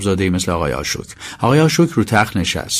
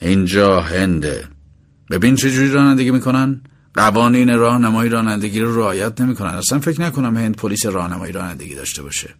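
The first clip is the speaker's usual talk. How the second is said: put-on calm, as to a child.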